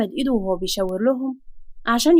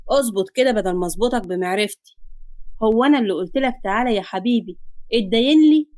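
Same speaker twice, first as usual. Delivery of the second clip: menacing debt collector; 2 semitones lower than usual. Acted. Debt collector gives his debtor two choices, mildly menacing. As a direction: lightly play a creditor toying with his debtor.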